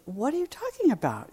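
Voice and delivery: high, fast incredulous outburst; a father who cannot believe his ears; astonished father. Acted. Father protesting to the young man, astonished and high.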